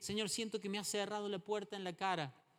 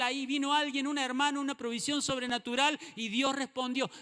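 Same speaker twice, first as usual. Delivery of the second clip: building testimony; 4 semitones higher, 4 dB louder than usual. Pretend.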